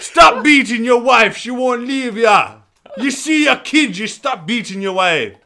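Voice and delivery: loud mock shout. Scolding a Fathers for Justice protester, loud shout. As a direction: bellow it at him.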